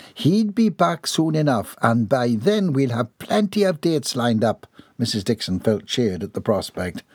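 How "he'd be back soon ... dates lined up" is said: higher, prim Southern lady; ladylike voice. Acted. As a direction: speak as a proper, composed matron.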